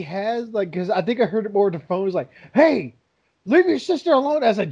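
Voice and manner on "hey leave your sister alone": imitating a dad's mild scolding, higher at the end; angry voice. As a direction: retell a father telling a kid off. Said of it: "the angry voice".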